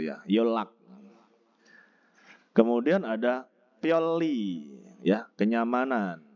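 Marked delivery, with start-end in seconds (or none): 3.8-4.7 "pioli" said as pyol-li; nien read as riel. Shown as a demonstration. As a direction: join the syllables of "pioli" with a doubled L. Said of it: "melafalkan dengan riel".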